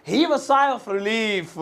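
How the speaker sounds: "he was sigh of relief" said very slowly; slow model phrase. Shown as a demonstration. Teacher repeats the English phrase very slowly. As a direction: drag the phrase out for learners. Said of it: "इसे English में कहेंगे".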